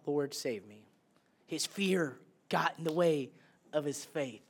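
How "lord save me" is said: cried out. A narrator's reading. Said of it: "he cried out".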